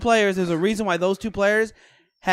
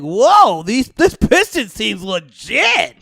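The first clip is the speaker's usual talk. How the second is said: announcer voice; much slower than usual. Retold or imitated. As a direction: boom it out like a sports announcer. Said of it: "Gotta love his announcer voice".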